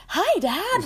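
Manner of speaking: put-on high, loud, eager teen boy; teenager voice. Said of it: "Johnny Depp's, like, teenager voice".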